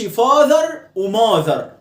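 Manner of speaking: father وماذر said with the same long vowel; wrong "fother and mother" with one vowel for both; mistaken matching vowels. Shown as a demonstration. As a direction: make وماذر rhyme with father. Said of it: "ما تقولش".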